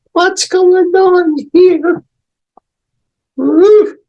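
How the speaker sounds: high, loud startled exclamation; mock surprise. Shown as a demonstration. Teacher acting the poem's sudden surprise, high exclaim. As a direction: act the surprise of summer. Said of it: "surprise at the change of line".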